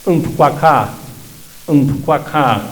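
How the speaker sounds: Umpuaca with a very soft, unstressed u before the m; soft u pronunciation. Shown as a demonstration. Teacher models umpuaca for students, u kept very soft. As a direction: keep the u in Umpuaca barely touched. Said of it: "va a ser bien suavecita".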